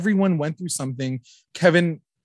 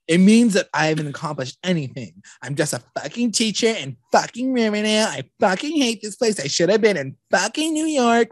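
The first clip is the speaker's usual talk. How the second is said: mock rant, pitched higher; 5 semitones higher than usual. Imitating Kevin's bitter outburst about his award, higher mock rant. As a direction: go off like a bitter teacher who hates his town. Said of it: "he just goes off".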